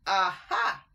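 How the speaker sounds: loud triumphant aha; gotcha aha. A narrator's reading. Rat catching the mice out, loud triumphant aha. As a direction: pounce on it.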